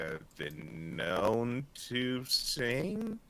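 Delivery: slow, halting bluff; bold-faced lying. Acted. Auditioning for the mermaid band, slow unconvincing bluff. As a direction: stretch it out uncertainly, making it up. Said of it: "I'm bold-faced lying at this point".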